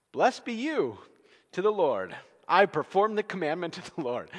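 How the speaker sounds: high, loud, pleased-with-himself greeting; Saul. Acted. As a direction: sing out a hammed-up pious boast. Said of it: "and Saul's like".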